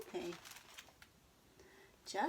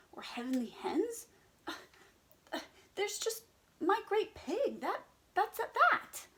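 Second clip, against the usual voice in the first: insist, getting louder; stern pig; 2 semitones higher, 4 dB louder than usual. Acted. Henry settling it with the animals, stern then loud. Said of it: "said Henry sternly".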